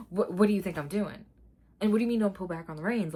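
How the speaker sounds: loud, incredulous and fed up; venting at the trainer; exasperated. Real, not acted.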